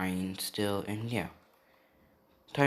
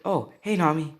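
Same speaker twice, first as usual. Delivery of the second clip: higher, louder acted hello; upbeat greeting; 7 semitones higher, 7 dB louder than usual. Luffy greets Nami at school, upbeat greeting. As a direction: greet a friend with a sudden lift.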